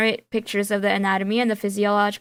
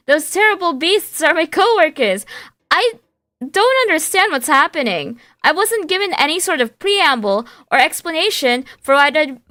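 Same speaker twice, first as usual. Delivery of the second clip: lightly voiced Alan; 5 semitones higher, 4 dB louder than usual. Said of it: "my shitty Alan impression".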